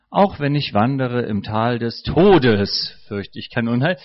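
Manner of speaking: "Auch" hit hard and falling; stress on auch, falling. Shown as a demonstration. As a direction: punch "Auch", then read on evenly. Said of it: "mit verschiedenen Betonungen verschieden lesen".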